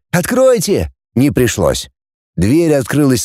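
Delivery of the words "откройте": imagined call. A narrator's reading. The shout they never needed at the door, lightly called. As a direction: call to be let in, restrained volume. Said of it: "а кричать".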